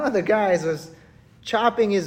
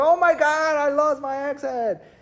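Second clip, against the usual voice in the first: mock, high, distressed freaking out; 7 semitones higher than usual. The speaker acts out a man who lost his axe head: mock freaking out. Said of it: "He's freaking out".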